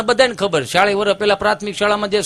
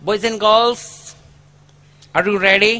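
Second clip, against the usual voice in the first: 1 mock prim teacher; 4 dB louder, much slower than usual. English-medium teacher mimicked.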